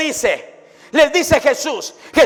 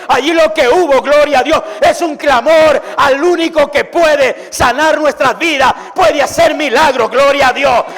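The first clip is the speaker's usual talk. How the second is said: raised, emphatic sermon voice; fervent preaching; 3 dB louder than usual. Acted. Preacher proclaiming Jesús's word of power, raised and fervent. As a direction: declare it with fire.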